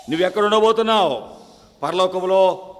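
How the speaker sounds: quick pulpit challenge; urgent question. Acted. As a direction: fire the question at them. Sharp sermon question.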